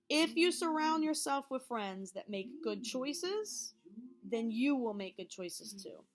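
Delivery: deliberate, emphatic teacher repeat; emphatic repeat for the back. Real, not acted. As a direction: drive the lesson home slowly, word by word. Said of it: "let me say it a little louder".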